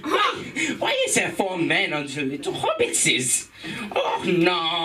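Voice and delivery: gasping Gollum staring at something he can't believe; Gollum impression. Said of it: "this is my impression of Gollum".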